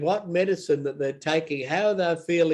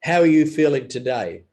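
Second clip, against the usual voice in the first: sincere question; 5 dB louder than usual. Shown as a demonstration. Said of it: "unless I mean it".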